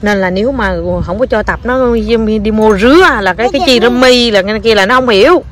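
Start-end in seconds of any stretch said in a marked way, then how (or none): 2.4-4.3 thick Quảng Nam regional accent. Shown as a demonstration. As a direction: say it in broad Quảng Nam dialect. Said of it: "nói đặt cái giọng miền Quảng luôn".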